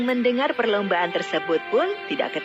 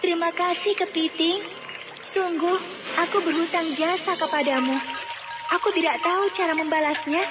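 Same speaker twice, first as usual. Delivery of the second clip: put-on high-pitched, earnest young heroine voice; indebted heroine, pitched well up; grateful heroine; 8 semitones higher than usual. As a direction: pour out thanks in a high, sincere voice. Heroine thanks the crab.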